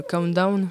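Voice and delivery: Countdown said with an English accent. Real, not acted. Film fan naming a title for the interviewer, English accent. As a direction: give Countdown its English pronunciation, a little self-conscious. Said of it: "désolé pour mon accent anglais".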